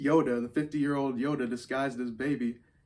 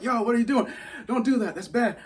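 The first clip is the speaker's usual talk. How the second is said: loud, high, laughing scold; mock Mando scolding; 10 semitones higher, 5 dB louder than usual. Mando catching Baby Yoda, high laughing scold. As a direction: wag a finger as Mando.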